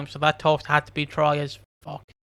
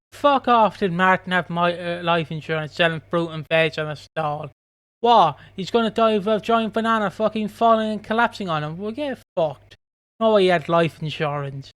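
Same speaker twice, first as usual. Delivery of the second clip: indignant rant. Retold or imitated. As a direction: vent it like a fed-up viewer scoffing at the plot. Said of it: "sorry for my little rant".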